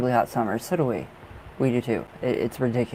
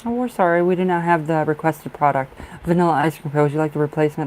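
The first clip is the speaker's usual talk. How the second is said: mock customer-service apology; 3 semitones higher, 4 dB louder, faster than usual. Shopper mimicking the store's out-of-stock message, mock apologetic. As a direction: imitate an apologetic substitution notice.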